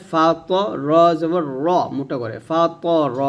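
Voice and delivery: ত and র said thick and heavy in ফা ত র. Shown as a demonstration. Teacher shows students the heavy ত and র sound. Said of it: "তর মোটা করে বলতে হবে".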